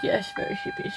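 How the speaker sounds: very high, very soft puppy voice; sleepy puppy voice. Pretend. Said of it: "She's like".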